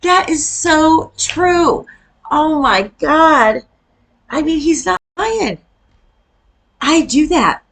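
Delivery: high, slow, stretched-out laughing exclaim; cracking up while agreeing; laughing disbelief. Real, not acted. Reacting to funny Midwest clip.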